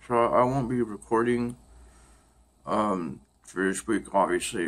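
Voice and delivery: talking stiffly through jaw pain; sore jaw. Real, not acted. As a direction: speak carefully around a sore jaw. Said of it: "as you can tell".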